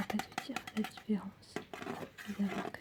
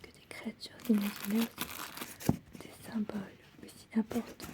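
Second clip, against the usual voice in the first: ASMR whisper. Acted. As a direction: whisper it gently.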